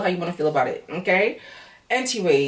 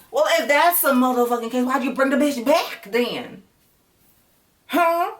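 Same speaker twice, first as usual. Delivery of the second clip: high-pitched exasperated comeback; indignant outburst; 7 semitones higher than usual. Acted. Viewer talking back to the pleading man, indignant. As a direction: fire back in outrage, ending on a high, demanding "Huh?". Mock comeback to the man's plea.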